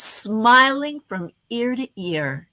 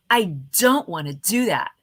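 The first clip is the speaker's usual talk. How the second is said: upbeat; 3 semitones lower, 4 dB louder than usual. Shown as a demonstration. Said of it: "or how about".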